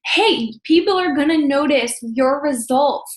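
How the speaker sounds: slow, upbeat and sincere; good energy. Shown as a demonstration. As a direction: bring real enthusiasm to it. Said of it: "Notice I'm bringing good energy".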